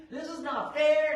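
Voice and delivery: mild panic. Retold or imitated. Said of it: "and he's freaking out".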